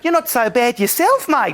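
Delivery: light, slow Aussie drawl; Australian accent. Acted. Emily answering Mark, a light slow Aussie accent. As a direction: flirt back in an Aussie twang. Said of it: "being an Australian female".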